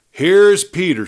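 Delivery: put-on a girl presenting her horse proudly; Joan voiced. Joan presents her horse to the crowd, lightly voiced girl.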